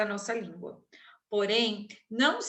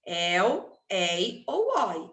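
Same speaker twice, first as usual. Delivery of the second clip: slow diphthongs; much slower than usual. Shown as a demonstration. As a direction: slowly spell out ei ou oi. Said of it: "terminarem em ditongo aberto". ("ei ou oi" pronunciado devagar)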